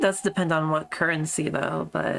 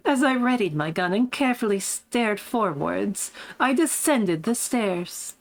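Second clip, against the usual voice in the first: smug posh voice; 3 semitones higher than usual. Acted. Streamer finding the character's voice again, lightly smug and posh. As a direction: recount it with a touch of posh poise. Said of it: "what was that voice again?".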